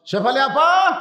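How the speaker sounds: calling out. Acted. Brother calls sister at door.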